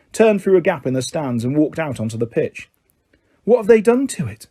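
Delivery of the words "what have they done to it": indignant. A narrator's reading. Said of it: "Cedric said indignantly".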